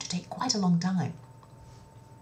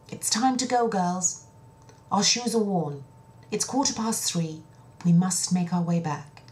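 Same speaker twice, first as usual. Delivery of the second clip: louder, higher call to the sisters; eldest sister calling; 4 semitones higher, 4 dB louder than usual. Acted. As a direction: round the girls up, a touch urgent. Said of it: "One of the sisters turned and said".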